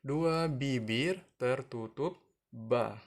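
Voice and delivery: lips pressed shut for ba, slow; demo of ba. Shown as a demonstration. Teacher modelling ba for children, slow and clear. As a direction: close both lips and say ba slowly. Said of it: "saying-nya atau pengucapannya".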